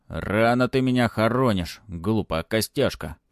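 muffled angry voice from a helmet; echoing voice inside helmet. Acted. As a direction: speak angrily from under a helmet. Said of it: "Глухо прозвучал гневный голос из-под шлема". (глухой гневный голос из-под шлема)

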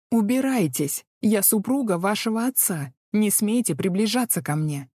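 loud indignant order; shouting. Acted. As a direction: yell at him to back off. Heroine shouts at dragon.

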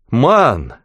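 loud, high-pitched shout of fear; panicked cry. A narrator's reading. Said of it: "закричал мэр". (испуганный высокий крик)

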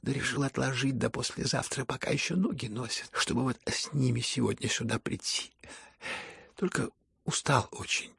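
soft, hushed, exhausted speech; faint, weary voice. Acted. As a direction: barely summon the breath to speak. Слабый Ипполит. (слабый, усталый полушёпот)

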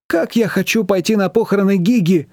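a touch of longing excitement; mild exclamation. A narrator's reading. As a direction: sigh it out eagerly. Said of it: "воскликнула Маечка". (лёгкое мечтательное восклицание)

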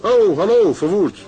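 loud, high startled hello; jump, then greet him. Acted. Caught off guard in the café by Verwoerd, startled.

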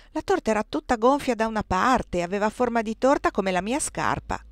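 put-on proud old cook bragging about her cakes, lightly done; lightly voiced Aunt Clo. Zia Clo boasts of her cooking. (la zia Clo, voce di cuoca orgogliosa appena accennata)

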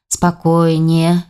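slow, steady order to calm down; calm command. Acted. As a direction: settle them with one slow word. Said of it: "велел Войтах".

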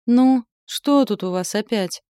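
slow, drawn-out sleepy question. A narrator's reading. Sleepy man finding a commotion in the hall, drawling wearily. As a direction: drag the words out, freshly woken. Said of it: "спросил Нитхек заспанным голосом".

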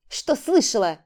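громкий резкий окрик; рявкнуть коротко и зло. Acted. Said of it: "рявкнула Сорина". (Рита рявкает на Валерию, резкий окрик)

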